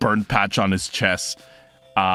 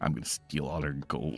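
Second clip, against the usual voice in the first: very quiet, low muttering under the breath; 8 semitones lower, 13 dB quieter than usual. Voicing a character leaving the room: mumbling. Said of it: "you just hear her mumbling".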